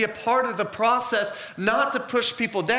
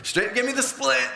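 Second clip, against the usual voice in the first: eager paramedic. Retold or imitated. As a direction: hand me that thing, I love this. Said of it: "I'm like".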